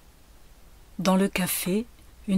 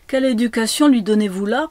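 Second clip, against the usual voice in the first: loud, quick, raised rebuke; reproach; 4 semitones higher, 8 dB louder, faster than usual. A narrator's reading. Lady to the mother about her upbringing, reproach. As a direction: scold it out fast and high.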